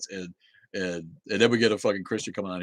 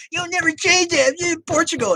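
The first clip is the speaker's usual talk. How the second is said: much higher, louder sneering parody; mocking voice; 8 dB louder than usual. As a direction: squeak it back in a taunting parody. Mocking the viewer's comment.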